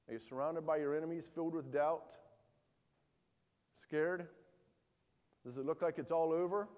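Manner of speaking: ordinary talk, nothing marked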